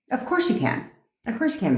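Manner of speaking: playful fake approval; sarcastic yes. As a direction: say it sweetly, clearly joking. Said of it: "It was a joke".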